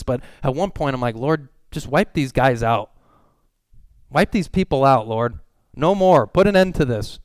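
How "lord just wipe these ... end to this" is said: pleading outcry. Retold or imitated. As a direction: cry out to God to end it. Pastor retells his angry prayer.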